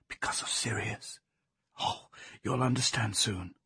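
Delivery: soft, secretive whisper. A narrator's reading. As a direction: hush it so only one person hears. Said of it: "and she whispered".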